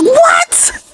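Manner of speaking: shocked what. Retold or imitated. Seeing her power bill, shocked high squeak. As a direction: shriek it in disbelief. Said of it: "I'm like".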